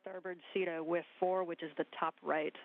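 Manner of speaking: crackly radio transmission; over a space radio link; sci fi communicator. Real, not acted. Spacewalk radio loop instructions.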